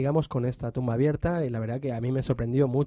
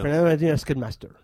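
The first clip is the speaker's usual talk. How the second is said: rattled off quickly; said faster; 2 semitones higher, 3 dB louder than usual. Shown as a demonstration. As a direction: rush the name out in one breath. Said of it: "dilo más rápido".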